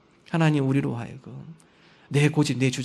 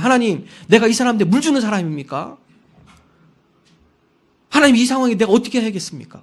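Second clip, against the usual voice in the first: louder, higher, exasperated protest; protesting to God; 5 semitones higher, 6 dB louder than usual. Retold or imitated. Moses protesting to God over the people, exasperated and loud. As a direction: argue back at God, fed up. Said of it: "하나님 앞에 따집니다".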